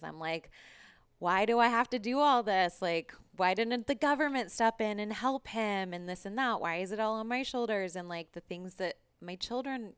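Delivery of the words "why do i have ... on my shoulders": loud, high, exasperated rant; re-enacted angry outburst. Coach reliving her anger at carrying her ex's care, ranting. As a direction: hurl the questions out, voice raised in protest. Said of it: "I needed to scream more".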